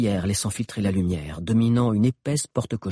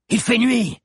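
high, loud protest; protesting yell; 13 semitones higher, 5 dB louder, slower than usual. A narrator's reading. Hakan objecting to solar scooters at night, protesting yell. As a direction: yell back that it makes no sense. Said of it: "hurla Hakan".

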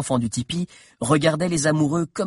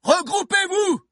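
very high, louder yelled command; Bill repeating his order, yelling even higher; shouted order, louder. Acted. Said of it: "cria Bill".

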